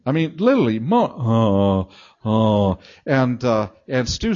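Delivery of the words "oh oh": mock moaning. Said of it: "I'm just lying there moaning".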